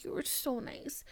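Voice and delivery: hushed, near-whispered compliment; soft, breath-light retelling; tender quote. Retold or imitated. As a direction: imitate gentle praise very softly. Retelling mother's kind words.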